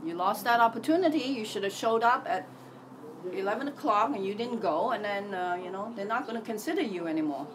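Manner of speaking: scolding mind. Retold or imitated. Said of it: "My mind is very good at telling me".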